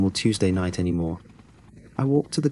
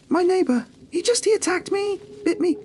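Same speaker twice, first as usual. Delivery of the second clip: much higher, frantic terrified cry; panicked shriek. A narrator's reading. Woman showing the clerk her bite, frantic terrified shriek. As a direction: blurt it out in shock and terror.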